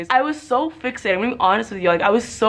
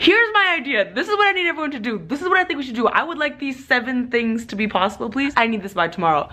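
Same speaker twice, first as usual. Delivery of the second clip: bossy email voice; 4 semitones higher than usual. Retold or imitated. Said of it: "where I'm like".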